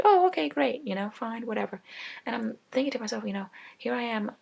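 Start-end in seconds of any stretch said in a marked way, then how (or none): 0.0-1.8 bright fake "okay, great", then sinking to a shrug; mock cheerful giving in; sarcastic agreement. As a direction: play along with false cheer that fades.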